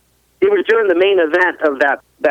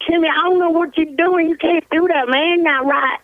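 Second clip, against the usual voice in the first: higher-pitched imitation of a thick foreign accent; Santo's thick accent; 10 semitones higher than usual. Friend calling Timmy back the next day, imitated in a thick accent. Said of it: "He goes".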